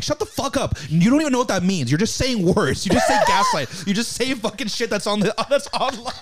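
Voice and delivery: high mocking rant, laughing through it; angry guy. Man going off on a girl, hammed-up high rant. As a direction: rant at her like the guy in the movie. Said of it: "And he's like".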